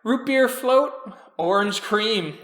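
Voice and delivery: high, eager server voice; diner server. Acted. Timothy taking the customers' drink orders, eager to serve.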